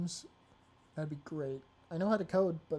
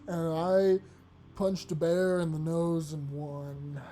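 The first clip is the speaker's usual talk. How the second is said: put-on loud, slow, sloppy drunk rant; 3 dB louder than usual. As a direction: belligerent drunk bragging. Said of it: "the drunk voice was required".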